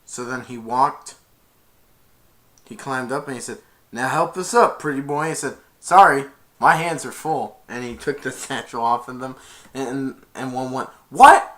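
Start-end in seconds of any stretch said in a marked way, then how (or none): 3.9-5.3 gruff demand. Acted. Thief demands help up. 5.8-7.6 smug taunt. Acted. Flynn taunts thieves. 11.1-11.5 a very high, very loud cry of the name; furious yell. Acted. Betrayed brother yelling after Flynn in a high furious shout.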